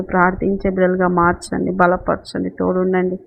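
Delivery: steady, even-toned closing prayer. Real, not acted. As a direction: pray aloud on the congregation's behalf. (ప్రార్థన స్వరంలో)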